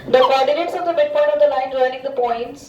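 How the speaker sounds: deliberate, word by word; slow careful reading. Shown as a demonstration. Teacher reads the question herself, slow and deliberate. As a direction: read it out slowly for the student. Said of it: "मैं ही पढ़ लेती हूँ बेटा".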